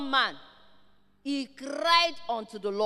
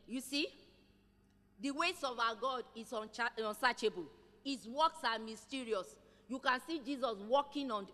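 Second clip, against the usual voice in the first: much softer, musing aside; quiet reflection; 2 semitones lower, 8 dB quieter than usual. Acted. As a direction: drop the voice and ponder aloud. Quiet reflection after reading.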